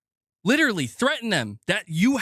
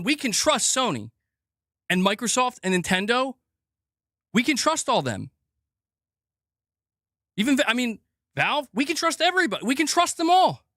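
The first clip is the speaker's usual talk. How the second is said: sarcastic praise; 3 semitones higher than usual. Acted. Sarcastic trust in corporations.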